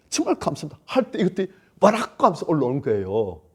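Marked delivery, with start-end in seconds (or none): 0.1-0.8 tearful thanks. Acted. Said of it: "눈물 흘리면서라도".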